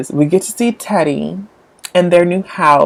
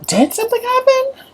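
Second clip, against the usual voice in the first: whisper; 3 dB quieter than usual. Pretend. Dramatic whisper reading a scene.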